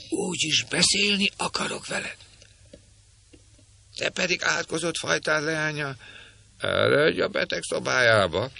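high, shrill-voiced crone scolding; a nasty old woman scolding the girl in a screech; screeching old hag. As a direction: cackle it out like a spiteful old witch. Old woman keeps talking.

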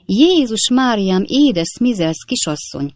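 drawn-out, high cry of alarm; exclaiming. A narrator's reading. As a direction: cry out in mild shock, then ease off. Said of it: "kiáltozta a többi huszonkilenc növendék". (elnyújtott, riadt felkiáltás)

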